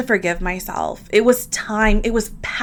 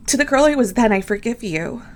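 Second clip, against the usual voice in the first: heartfelt affirmation; 3 semitones higher, faster than usual. Shown as a demonstration. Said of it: "Can you repeat that to yourself".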